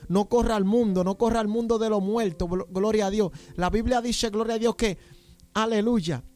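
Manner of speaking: urgent exhortation to the congregation; fervent preaching. Real, not acted. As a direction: preach with force, punctuating phrases with praise. Preaches at full force to congregation.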